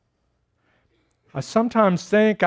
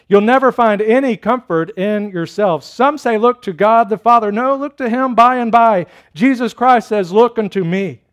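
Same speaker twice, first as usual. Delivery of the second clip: raised, lively pulpit exhortation, lightly acted; lay preacher; 4 semitones higher, 4 dB louder than usual. Preacher correcting his listeners, lightly acted with raised pitch. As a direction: preach it higher and insistent. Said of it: "And so the preacher began thus".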